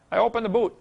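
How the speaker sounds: a light mock English accent, voice lifted. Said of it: "just some of the things he would say".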